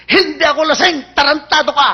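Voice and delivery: loud, high insult flung at the cop; acted belligerent drunk talking back; bold defiance. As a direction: protest hotly, then curse him. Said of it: "Tabang talaga".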